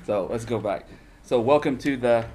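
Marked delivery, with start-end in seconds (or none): 1.2-2.3 loud, high announcer welcome; hearty greeting. Acted. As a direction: belt out the show name. Show opening redone, shouted tag.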